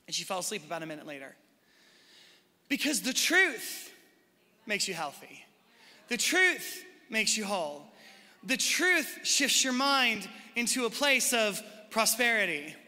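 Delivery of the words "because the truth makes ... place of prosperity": preaching emphasis. Real, not acted. Preacher drives home the point.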